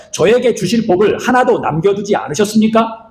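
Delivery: high, slow pleading with mild hurt; mock tearful question. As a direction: ask as if close to tears. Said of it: "울면서 묻습니다". (울먹이며 묻는 흉내)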